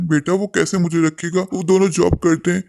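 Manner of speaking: put-on a lonely old father calling for his family. (ऊँची आवाज़ में शिकायती बूढ़े पिता)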